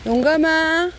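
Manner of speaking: called out loud and high across the yard; calling out. Real, not acted. Calling the cat Yonggam over to eat, loud and high. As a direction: call the cat to come and eat.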